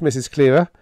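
mildly gentle address, rising at the end. Acted. Biggs addressing Helen with bad news, gently. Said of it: "Biggs said gently".

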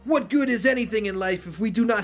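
Shang Tsung voice. Acted. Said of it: "copy the bullshit version from Mortal Kombat nine".

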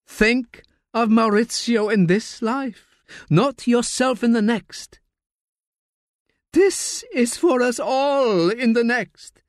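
high, slow, thin voice of a dying man; frail dying old man. Acted. Dying uncle insists to his nephew on telling the truth, slow frail resolve. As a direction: hold firm with failing breath.

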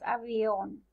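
avión with the weight on the final ón; avión, accented on its last syllable; stress on the O. Shown as a demonstration. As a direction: lean on the O in avión. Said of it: "pronunciamos más la O cuando decimos".

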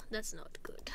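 breathy, whispered worry after a long sigh; sigh, then whisper it under stress; audibly stressed. Pretend. Reacting to the store going badly, stressed. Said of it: "You can hear the stress in her voice"

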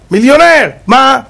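high, delighted outburst; exultant exclamation. Acted. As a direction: burst out at sudden riches. Acting out sudden riches.

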